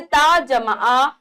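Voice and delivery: put-on slowly sounding out each part for children; slow spelling out. Shown as a demonstration. Teacher slowly spelling a syllable for children. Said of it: "लेकिन ये हर".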